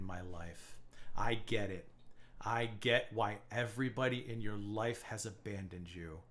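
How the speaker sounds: quiet, icy scorn for a rival; cold, quiet contempt. Real, not acted. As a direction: say each insult softly so it cuts deep. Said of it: "I say it in this tone".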